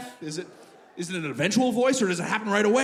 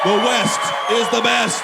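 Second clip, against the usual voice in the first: loud, slow, raised chant; rallying shout; 4 semitones higher, 8 dB louder than usual. Real, not acted. New Western Canadian rallying the crowd, loud slow shout. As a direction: holler it like a rallying cry.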